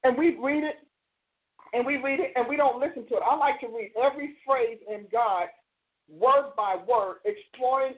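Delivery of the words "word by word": slow and deliberate, each word separate; measured, emphatic pacing. Shown as a demonstration. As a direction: stretch out "word by word". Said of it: "emphasizing each word".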